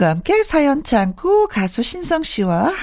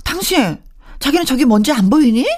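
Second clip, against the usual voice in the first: raised pitch, reproachful nagging; acted scolding wife; 3 semitones higher than usual. Wife scolding husband about dusty house, reproachful. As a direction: scold a spouse who misses the dust.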